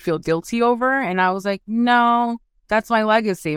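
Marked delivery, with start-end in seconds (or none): 1.7-3.5 higher, louder retold pushback; firm retold reply. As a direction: push back firmly on being made to feel guilty.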